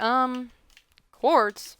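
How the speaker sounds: "quartz" dragged out in disbelief after a hesitant um; mock disbelief with a falling "quartz"; incredulous. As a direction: question "quartz" like you can't believe it. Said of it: "I'm like".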